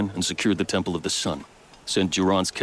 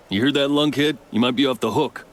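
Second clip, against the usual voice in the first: raised, higher-pitched shout over to someone; pitched up to carry; calling out; 7 semitones higher, 4 dB louder than usual. Acted. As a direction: call across to the lunkhead, louder and higher. Calls out to the lunkhead Waleed.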